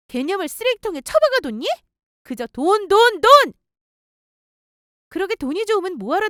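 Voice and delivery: acted scolding with rising outbursts; mildly shouted, exasperated telling-off; angry tirade. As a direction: tear into the boyfriend, indignant. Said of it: "엄청나게 소리 크게 치며 화냈어요".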